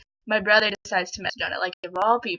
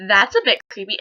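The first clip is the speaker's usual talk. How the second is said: louder retort, voiced aloud; 5 dB louder than usual. Girl replays telling the classmate off, out loud. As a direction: call him out, audibly. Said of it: "I said it out loud".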